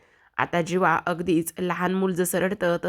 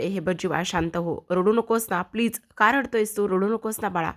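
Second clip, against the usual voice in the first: soothing mother. Acted. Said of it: "त्याला आधार देत असते".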